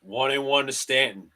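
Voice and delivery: broadcaster cadence, calling each pitch; mock radio play-by-play of a Yankees game. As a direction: call the game like a TV announcer.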